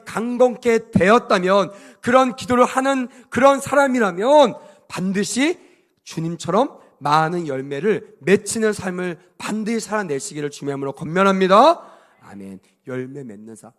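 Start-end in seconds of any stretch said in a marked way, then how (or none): 0.1-11.9 loud, rising preacher's exhortation; forceful preaching. Real, not acted. Preacher urging the congregation to bear fruit, forceful. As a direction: push each phrase out to the congregation.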